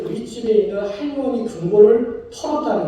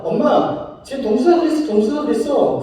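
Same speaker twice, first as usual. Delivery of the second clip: tattling sister; 5 semitones higher than usual. Retold or imitated. Older sister telling on him.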